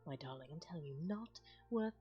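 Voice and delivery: put-on lightly done posh British accent; hint of posh British. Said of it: "you could also do posh British".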